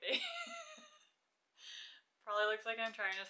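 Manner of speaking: chuckling through the words; amused laughing commentary. Real, not acted. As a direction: giggle along as you say it. Laughing over the sped-up footage.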